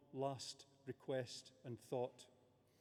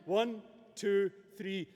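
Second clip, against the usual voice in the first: a louder count-in to the crowd; count to three; 4 semitones higher, 6 dB louder, slower than usual. Real, not acted. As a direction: count up to the big shout. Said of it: "On three".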